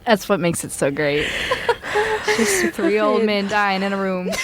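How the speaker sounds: cracking up mid-sentence; laughing. Real, not acted. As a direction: talk while crying with laughter. Speaking through laughter.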